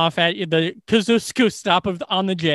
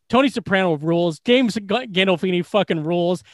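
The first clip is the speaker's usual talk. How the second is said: excited fan gushing. Retold or imitated. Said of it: "I go".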